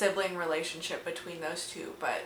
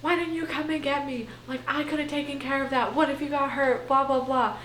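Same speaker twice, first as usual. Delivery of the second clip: mock angry; 5 semitones higher, faster than usual. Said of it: "Christian gets all mad".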